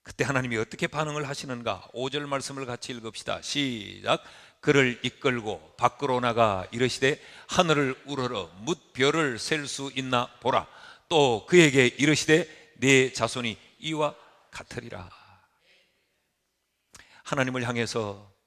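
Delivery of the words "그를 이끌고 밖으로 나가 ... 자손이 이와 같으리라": 느리고 또박또박한 합독 낭독; 회중이 따라 읽도록 천천히 읽어라. Real, not acted. 회중과 함께 성경 봉독. (느린 성경 낭독)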